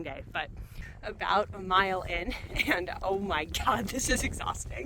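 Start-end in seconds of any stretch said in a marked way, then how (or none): 2.7-4.9 panting between words; breathless from climbing on skis; out of breath. Real, not acted. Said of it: "I'm out of breath".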